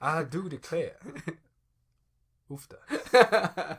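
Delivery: loud, high Southern belle exclamation. Pretend. Hamming it up as a Southern belle, loud and high. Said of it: "Southern Belle".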